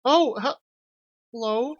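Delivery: put-on a camp French chef's welcome, dragged out with a French accent; flamboyant French chef. Streamer voicing the flamboyant French chef greeting Maya, hammed-up French accent. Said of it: "I need to think of a new voice".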